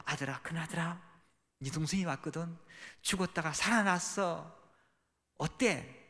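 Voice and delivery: normal talking voice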